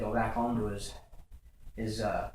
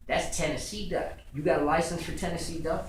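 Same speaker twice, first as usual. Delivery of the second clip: mildly exasperated, higher-pitched questioning; higher voice with a touch of frustration; frustrated game warden; 6 semitones higher than usual. Retold or imitated. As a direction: act out a warden losing patience. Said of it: "He's frustrated now".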